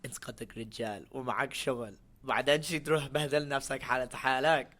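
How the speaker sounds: scolding Arab mother; Arab mom voice. Retold or imitated. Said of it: "my mom said".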